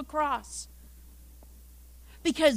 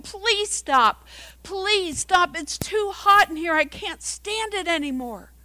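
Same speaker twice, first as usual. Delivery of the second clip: distressed begging; 5 semitones higher, 3 dB louder than usual. Acted. Acted teacup begging inside the furnace.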